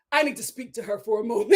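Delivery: stern little confrontation, retold. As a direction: imitate a man demanding a word. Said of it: "Real stern".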